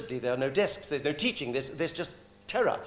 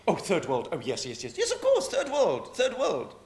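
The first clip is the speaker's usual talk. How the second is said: patronizing cooing over the third world; mock condescension. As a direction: mimic a smug Brit talking down. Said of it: "And then you laugh at the third world".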